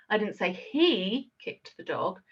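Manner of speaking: slow, with "he" singled out; slow down and land the weight on "he"; stress on he. Shown as a demonstration. Trainer demonstrating emphasis to staff, slow stress on "he". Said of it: "emphasize one of those words".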